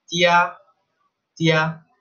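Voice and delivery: "tia" said slowly in Mandarin tone; Chinese word. Shown as a demonstration. Teacher modelling the word for family in Chinese. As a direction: stretch out "tia" for learners. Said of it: "en chino se dice".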